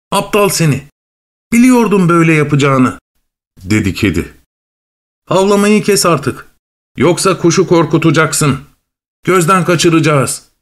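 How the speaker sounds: high-pitched cross cat voice; scolding cat. Acted. Cat scolding the dog for scaring the bird, exasperated.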